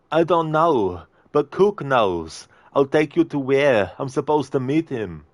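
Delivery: a hint of a panicky thug; scared henchman. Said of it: "Arnie movie scene impression".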